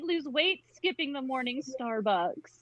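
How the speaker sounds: a touch of a muttered complaint. Acted. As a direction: grumble it under your breath. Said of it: "she muttered to herself".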